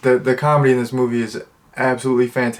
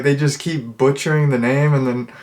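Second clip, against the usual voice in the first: usual speaking voice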